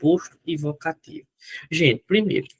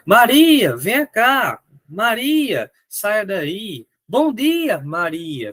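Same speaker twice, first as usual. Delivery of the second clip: calling Maria from across the house, raised and high; 4 semitones higher, much slower than usual. Shown as a demonstration. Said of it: "Você tá chamando alguém". (chamando alguém em voz alta)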